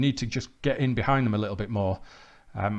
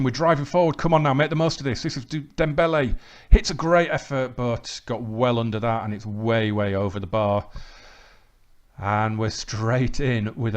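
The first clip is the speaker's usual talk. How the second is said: lively match commentary, rising with each chance; live play-by-play; 3 dB louder than usual. Real, not acted. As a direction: call the action as it happens. Commentates his own match highlights.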